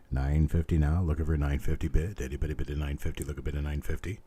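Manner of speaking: rhythmic auctioneer bid calling. Acted. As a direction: keep the bids rolling like an auctioneer.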